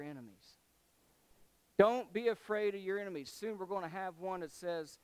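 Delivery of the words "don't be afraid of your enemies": louder, higher, quicker exhortation; emphatic repeat. Acted. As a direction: drive it home with preaching force.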